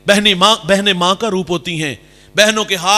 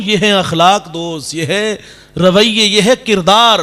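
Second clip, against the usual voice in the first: slow, loud, weighty declaration; slow, rising preacher's climax; emphatic preaching; 4 dB louder, slower than usual. Real, not acted. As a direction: hammer home each phrase. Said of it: "preacher drives home the moral".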